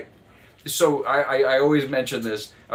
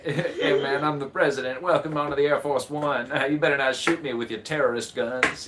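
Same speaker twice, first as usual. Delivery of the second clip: vague Southern president; 3 semitones higher than usual. Retold or imitated. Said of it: "a vaguely, like, Southern guy".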